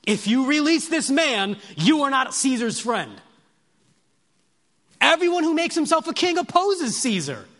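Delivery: loud, high, forceful accusation; crowd crying out. Acted. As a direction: shout it as an angry crowd's threat. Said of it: "But the Jews cried out".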